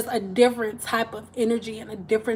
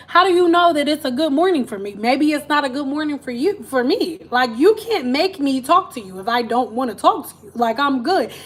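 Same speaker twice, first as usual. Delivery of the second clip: higher, louder, quicker retort; defiant dad; 4 semitones higher, 3 dB louder than usual. Retold or imitated. Dad firing back at the churchgoer, higher and louder. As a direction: push back, he owes nobody a greeting. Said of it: "He said".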